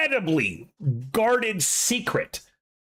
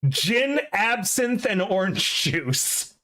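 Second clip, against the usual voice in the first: heavy slur, dragging the words slowly; slurred drunk voice; 2 semitones higher, slower than usual. Acted. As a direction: slur it like someone badly drugged. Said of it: "in a super slurred voice".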